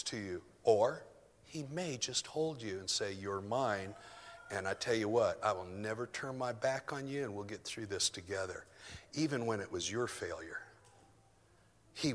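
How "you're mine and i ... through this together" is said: comforting. Pretend. God's comforting words voiced.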